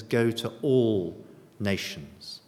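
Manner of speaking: slow, all drawn out; stress on all. Shown as a demonstration. Preacher repeating the true command slowly. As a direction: pace it slowly, leaning on all. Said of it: "He says".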